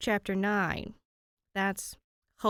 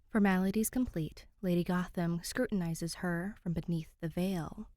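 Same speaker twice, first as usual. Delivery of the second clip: story narration. A narrator's reading. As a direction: read it like a hushed ghost story. Reads the fan fiction aloud.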